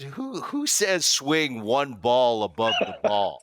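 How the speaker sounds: slow, stretched disbelief; mock-baffled retelling of the advice; incredulous. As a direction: repeat it like it makes no sense. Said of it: "And I looked at him, I said".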